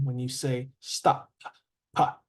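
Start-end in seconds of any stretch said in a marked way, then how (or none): 1.9-2.2 one puffed "pa"; isolated P sound. Shown as a demonstration. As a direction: demonstrate the voiceless P on its own. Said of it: "the P sound".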